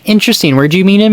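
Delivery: high, sing-song feigned interest; mock innocent curiosity. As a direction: play dumb with a sweet high "interesting".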